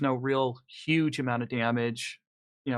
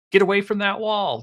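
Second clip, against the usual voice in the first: raised, higher urgent warning; loud, higher-pitched shout of alarm; yelled warning; 7 semitones higher, 7 dB louder than usual. Acted. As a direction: call out a warning to someone by the wall. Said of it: "when Teresa yells out".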